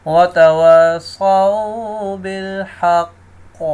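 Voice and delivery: slow chanted tajweed recitation; Quran recitation. Shown as a demonstration. Teacher recites the verse for students, slow chant.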